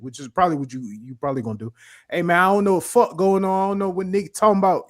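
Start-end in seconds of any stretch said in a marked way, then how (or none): 2.1-4.9 higher, louder mock Atlanta accent, rushing the words; hammed-up Atlanta accent, faster and brighter in pitch. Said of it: "the Atlanta dumb nigga shit".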